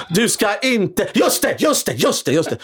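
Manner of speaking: hesitant, halting delivery; mock confusion; slow, drawn-out start. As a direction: drag the words out slowly, then stammer. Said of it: "Jag går in sakta och säger".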